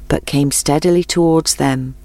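plain reading voice

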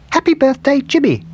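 high, sing-out birthday greeting; cake greeting read out. A narrator's reading. Gingerbread man reads the cake's writing, high birthday greeting.

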